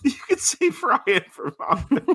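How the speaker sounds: high, laughing charity pitch. Pretend. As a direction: pitch it while cracking up.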